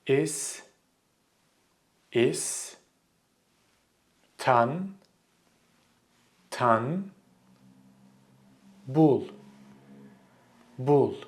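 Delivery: Istanbul broken into "Is", "tan", "bul", long pauses between; slow syllable-by-syllable. Shown as a demonstration. Teacher slowing it down for learners, one syllable at a time. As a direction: say each syllable of Istanbul separately, twice. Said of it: "Let's do it slowly".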